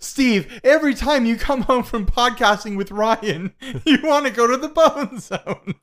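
high-pitched, loud comic wife voice; exaggerated high-voiced spouse impression; mock nagging wife. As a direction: pitch it way up, hammed-up complaint.

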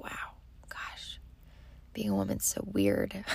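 a bewildered man muttering to himself, deep and hushed; baffled husband. Retold or imitated. Imitating her husband baffled by her rambling, low and hushed. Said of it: "he's just like".

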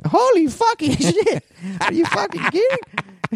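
high, slow, stunned dad voice; shocked dad impression. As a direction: draw it out like a flabbergasted father. Dad's reaction in the car.

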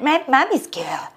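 put-on slow cooing baby talk; mock baby talk. Wife mimics a friend cooing at her daughter, mock baby talk. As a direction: coo at a little girl. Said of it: "She does this, like, weird talk".

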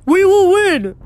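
high, loud, jubilant cry; beaming. A narrator's reading. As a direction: crow it with beaming confidence. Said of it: "he beamed".

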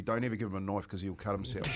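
chuckling through a dad's joke; laughing retold warning. Father warns the boss about his son, laughing. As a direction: let the laugh leak through the quote. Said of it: "The old man said to the boss".

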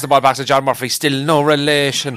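commentate, then stretch the punchline; Mícheál Murhurty. Acted. Imitating a classic commentator for friends, Gaelic commentary. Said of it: "The Gaelic commentator".

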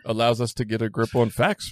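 light Yoda imitation, mostly own voice; scrambled Yoda phrasing, half-laughing. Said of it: "so I can sound like Yoda".

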